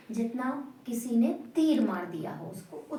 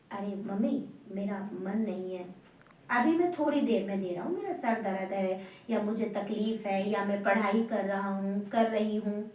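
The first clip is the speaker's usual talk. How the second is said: said lovingly; 4 semitones lower than usual. Retold or imitated. Child answering mother politely, said with love. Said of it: "प्यार से बोला आपने".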